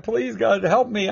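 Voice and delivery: high-pitched mock plea; hammed-up desperate prayer; acted begging. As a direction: plead urgently, pitched well up. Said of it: "He would beg God".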